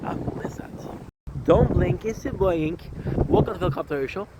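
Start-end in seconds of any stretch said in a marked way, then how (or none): 1.4-4.3 show intro. Acted. Host opening the Helicopter Show, bright announcer style. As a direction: greet viewers like a channel host.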